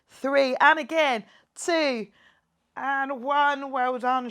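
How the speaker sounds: loud workout coach counting down; coach pushing. Real, not acted. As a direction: drive the squad through the last reps. Coach pushing last reps.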